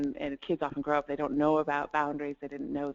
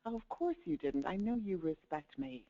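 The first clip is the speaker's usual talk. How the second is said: gracious reassurance; 5 dB quieter than usual. Shown as a demonstration. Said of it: "you reinforce the need there".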